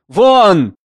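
a furious professor barking a single word; shouted order. Acted. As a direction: throw him out with one yell. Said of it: "Потише, потише".

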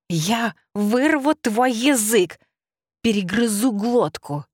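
slow, snarling creature threat; menacing rabbit. Acted. Furious rabbit threatening the heroine, snarling. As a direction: growl the threats like a rabid beast.

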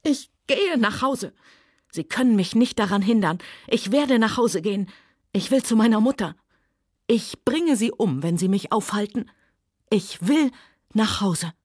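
high, desperate near-hysterical pleading; shrieking. Acted. Scarlett pleading hysterically with Rhett. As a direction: keep pushing through the rising panic. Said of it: "Ihre Stimme überschlug sich und sie kreischte".

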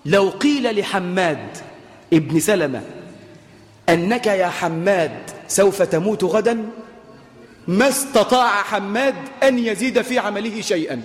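very slow, deliberate classical Arabic; solemn recited saying. Acted. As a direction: let each phrase sink in, slowly. Reciting the saying about Hammad. (إلقاء بطيء ومتأنٍ للقول)

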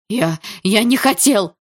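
high, loud, stammered protest; crying out. A narrator's reading. Cornered boy denies blame to his attackers, crying out. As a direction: shout an excuse, drawn out slowly. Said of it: "выкрикнул тот".

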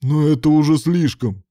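martyred protest. A narrator's reading. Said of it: "с мученическим видом".

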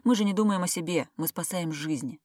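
plain reading voice

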